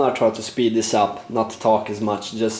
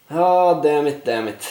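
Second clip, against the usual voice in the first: frustrated; 4 semitones higher than usual. Real, not acted. Bad dice roll in game.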